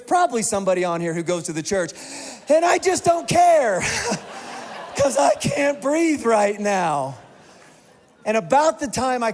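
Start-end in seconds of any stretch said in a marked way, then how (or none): 2.5-3.8 loud, high declaration; shout. Retold or imitated. Preacher retelling his airplane panic, loud and high. 5.0-7.2 slow shout. Retold or imitated. Panic on plane aisle.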